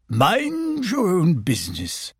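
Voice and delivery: high, slow, secretive; mysterious Owl. Acted. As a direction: keep it close like a secretive owl. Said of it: "he would look mysterious and say".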